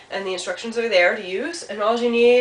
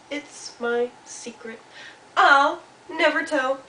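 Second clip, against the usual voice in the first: secretive little Mouse; 6 semitones higher, 4 dB louder, slower than usual. Acted. Mouse answers Turtle, slow and secretive. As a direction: space the words out, then insist.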